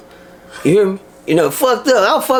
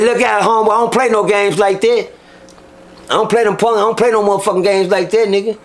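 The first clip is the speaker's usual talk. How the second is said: tough warning; 5 semitones higher than usual. Retold or imitated. Standing up to inmate.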